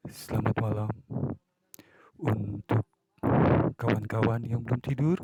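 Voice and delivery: a hint of a mellow radio announcer easing listeners to sleep; late-night radio host. Shown as a demonstration. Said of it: "Kayak contohnya ... suara yang merdu tengah malam". (sedikit gaya penyiar radio tengah malam yang lembut)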